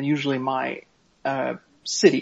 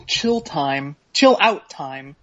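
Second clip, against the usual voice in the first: mocking air quotes; much slower than usual. Reading a colleague's email, slow scornful quoting. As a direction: drag out chill out time slowly.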